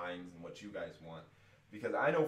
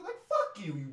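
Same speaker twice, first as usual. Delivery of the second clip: high, loud furious jab; angry jab; 12 semitones higher, 7 dB louder than usual. Real, not acted. Fan ranting at the announcer with a loud angry jab. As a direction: spit it at him. Raging at commentator.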